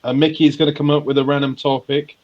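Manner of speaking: loud high hosting voice; game show host. Pretend. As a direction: announce the segment like a host.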